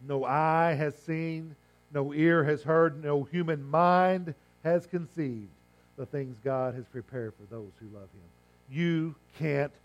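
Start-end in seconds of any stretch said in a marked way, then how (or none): 0.1-7.8 slow, weighty recitation; solemn scripture reading. Acted. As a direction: let each line land slowly.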